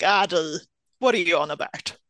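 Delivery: mild scorn at something ridiculous; dismissive disbelief. Acted. Answering something completely ridiculous, dismissive disbelief. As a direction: brush it off as unworthy of comment. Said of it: "you say it when someone has just said something completely ridiculous".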